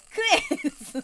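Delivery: high, loud bossy yell; mock shout. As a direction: order them to eat. Forcing meat on customer. (「食え」と怒鳴る)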